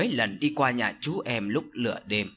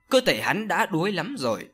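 usual speaking voice

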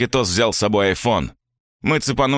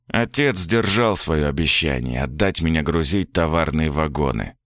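ordinary delivery

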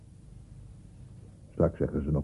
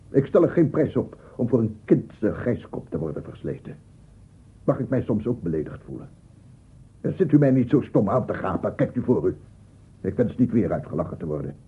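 wounded pride, raised voice; offended indignation; 3 semitones higher than usual. Acted. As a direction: tell off the staring audience. Old man offended by gaping audience.

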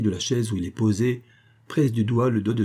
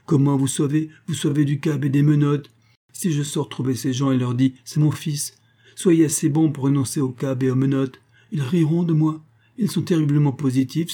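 mocking marquis; 5 semitones higher than usual. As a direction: play the marquis amused by his son's plight. Marquis mocks his son.

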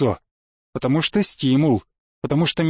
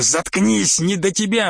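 impatient rebuff, pitched a little up; testy outburst without shouting; irritated dismissal; 3 semitones higher than usual. Acted. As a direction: cut the boss off rudely. Cuts off the boss rudely.

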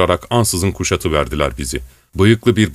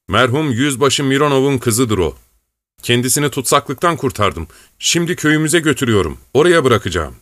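a hint of a jovial officer, higher; lightly voiced officer Zurin; 5 semitones higher than usual. Zurin teases then orders soldiers, lightly voiced. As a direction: play the swaggering officer giving orders.

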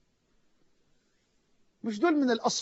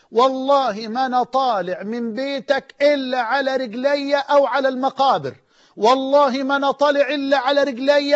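pleading oath shout; 3 semitones higher, 4 dB louder than usual. Retold or imitated. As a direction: swear it to God at the top of your voice. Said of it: "وقعد يصرخ". (صرخة قسم مُلحّة)

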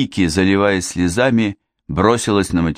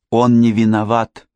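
babbling through sobs; 4 semitones higher, 3 dB louder than usual. Acted. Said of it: "пролепетала Вики, захлёбываясь от рыданий".

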